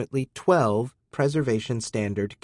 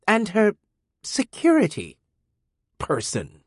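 furious; 10 semitones higher than usual. A narrator's reading. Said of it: "Amina was furious".

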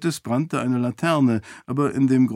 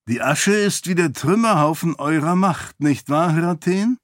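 lightly voiced sly priest, taunting with a rising question; a hidden figure needling the commander; mocking voice from the shadows; 5 semitones higher than usual. Hidden priest taunts Hirathen from the dark, lightly mocking. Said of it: "fragte eine Stimme".

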